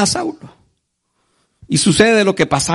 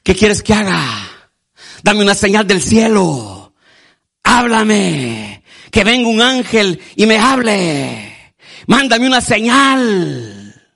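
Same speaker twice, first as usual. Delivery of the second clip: mock pleading prayer; much slower than usual. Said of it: "muchos cristianos evangélicos".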